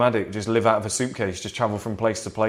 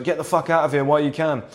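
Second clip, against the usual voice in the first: imitated Cockney bloke, higher-pitched; Cockney accent; 4 semitones higher than usual. Cockney guy warning a bloke to leave, imitated Cockney accent. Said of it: "in a Cockney accent".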